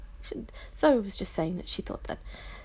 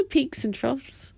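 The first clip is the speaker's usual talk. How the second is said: laughing correction; 6 semitones higher, slower than usual. Real, not acted. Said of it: "did I say valleys and troughs?".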